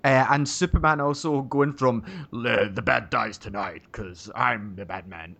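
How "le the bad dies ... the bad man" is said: put-on Scottish accent. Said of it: "with that Scottish accent".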